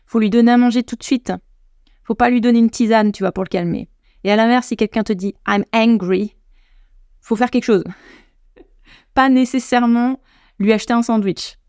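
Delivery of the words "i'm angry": "angry" begun on the vowel, rising end; careful demo of H-less "angry"; no initial H. Shown as a demonstration. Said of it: "C'est important de savoir la différence".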